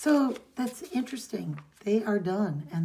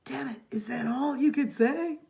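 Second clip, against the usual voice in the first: higher-pitched, breathy whisper; whispered reproach; 5 semitones higher than usual. Acted. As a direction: hiss the complaint under your breath. Reading a character's bitter line.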